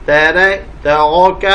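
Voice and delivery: ordinary delivery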